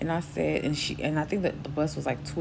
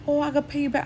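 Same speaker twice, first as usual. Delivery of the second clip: high voice; 11 semitones higher than usual. Retold or imitated. Lady's offer quoted.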